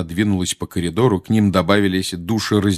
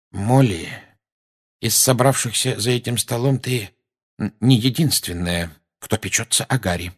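sharp; 3 semitones higher than usual. Acted. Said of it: "резко сказал Люпин".

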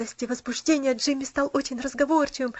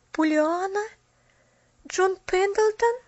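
high, rising, halting questions; slow, astonished questions with long pauses; stunned disbelief; 7 semitones higher, slower than usual. A narrator's reading. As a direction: echo each name, amazed. Newcomer stunned by the news.

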